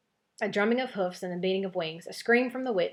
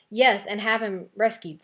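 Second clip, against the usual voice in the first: scornful; 2 semitones higher, 6 dB louder, slower than usual. Acted. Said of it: "said the witch scornfully".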